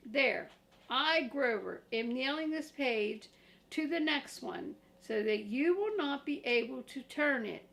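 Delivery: loud proud puppet declaration; Grover proclaiming. Acted. Grover proudly fixes the pages, loud. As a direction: announce it proudly.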